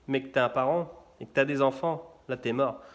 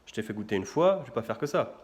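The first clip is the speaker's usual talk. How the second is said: grumpy vendor; 5 semitones lower than usual. Retold or imitated. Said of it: "Et là, il fait".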